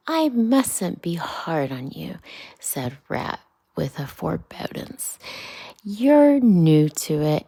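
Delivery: storybook Rat, half whispered, half declaimed; Rat, lightly voiced. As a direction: Rat grumbling about the crowded bank.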